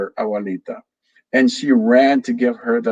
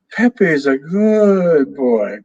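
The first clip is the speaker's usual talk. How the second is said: higher, slow, drawn-out parrot phrase; slow parrot repeat; 5 semitones higher, 4 dB louder, slower than usual. Acted. Parrot Pepe repeats himself slowly, smug drawn-out parrot voice.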